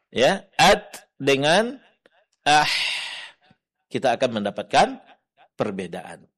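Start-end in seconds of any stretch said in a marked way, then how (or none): 0.1-2.7 "at" cut off, "ah" breathed long, slow; slow contrast of stop and flow; stopped versus flowing. Shown as a demonstration. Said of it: "ada yang tertahan, ada yang terlepas".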